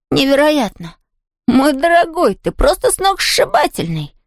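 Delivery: put-on excited boy's gushing admiration; gushing excitement. A narrator's reading. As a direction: rave about him, voice soaring. Tom gushes over Hugo.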